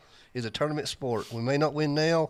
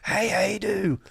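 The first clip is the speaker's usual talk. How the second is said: high, drawn-out heckle; retold heckler's shout; 8 semitones higher, 4 dB louder, much slower than usual. Fan behind them taunting a player all game, mock shout. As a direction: call it out high, stretching the last words. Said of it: "he would just shout out".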